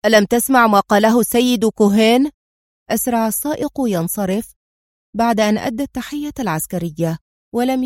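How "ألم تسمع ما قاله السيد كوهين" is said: loud, short-tempered snap; irritable. Acted. General snapping at the hesitant driver, irritable. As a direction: bite the question off impatiently. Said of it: "قال في عصبية".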